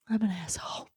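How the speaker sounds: acted guilty murmur to yourself. Mum aside to herself after snapping at her daughter, guilty. Guilty self-reproach, repeated softly.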